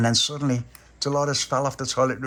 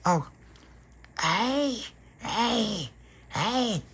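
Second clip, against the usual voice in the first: high hey calls; vampire call; 13 semitones higher, 3 dB quieter, much slower than usual. Acted. Stella retrying the call after Tony's note, still high. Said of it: "a little bit deeper with the voice".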